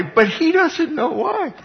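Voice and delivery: slow, high laughing words. Real, not acted. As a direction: barely get it out for laughing. Laughing at his own story.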